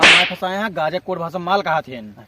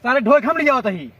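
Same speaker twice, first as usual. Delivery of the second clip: out of breath; 6 semitones higher, 4 dB louder than usual. Acted. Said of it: "काहे इतना हाफत हा?".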